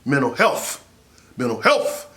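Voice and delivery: "mental health" repeated firmly, ending on a rise; mean every word of "mental health"; said with conviction. Shown as a demonstration. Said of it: "say it like you mean it".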